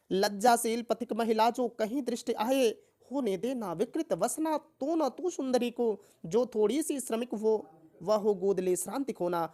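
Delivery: measured verse reading aloud; declaimed Hindi poem; poem recitation. Acted. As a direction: recite it line by line like classroom verse.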